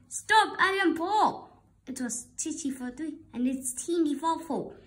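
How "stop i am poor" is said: higher, louder anguished plea; flustered old lady cry; distressed cry. Acted. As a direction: cry out in dismay. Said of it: "The little old lady cried".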